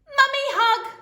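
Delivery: put-on high loud baby demand; baby screaming. A narrator's reading. Toddler demanding mum, screamed. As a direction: wail it like a toddler. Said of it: "screamed the baby".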